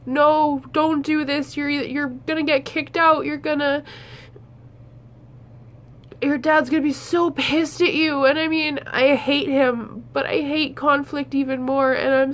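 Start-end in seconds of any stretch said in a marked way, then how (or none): 0.1-8.2 anxious inner warning. Pretend. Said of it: "my gut's telling me".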